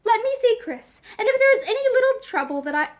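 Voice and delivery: desperate reassurance. Acted. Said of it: "With a desperate effort, he found his voice".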